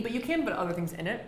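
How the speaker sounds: talking with a mouthful; words round a bite of food; mouth full. Real, not acted. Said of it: "I'm talking with my mouth full".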